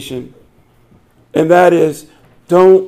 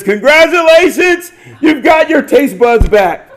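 gleeful doctor; 8 semitones higher than usual. Retold or imitated. Doctor tricking the young man, high gleeful crow. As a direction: crow it like a doctor who just won the bet. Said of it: "So Doctor Geezer says".

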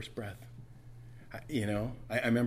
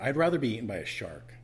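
ordinary talk

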